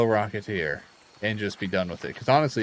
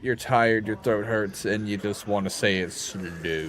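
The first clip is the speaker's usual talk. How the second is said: voice of a tired body; 4 dB louder, slower than usual. Retold or imitated. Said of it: "my body was like".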